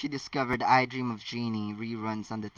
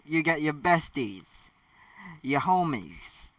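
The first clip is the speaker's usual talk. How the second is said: mock African American accent. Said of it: "I don't do the black voice well".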